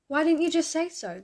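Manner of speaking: high, loud, cheery exclamation; cheerful guard. A narrator's reading. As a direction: welcome them with hearty cheer, pitched well up. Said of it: "the man's cheerful tone".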